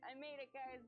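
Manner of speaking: crying through the words; teary and moved. Real, not acted. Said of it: "I'm gonna cry".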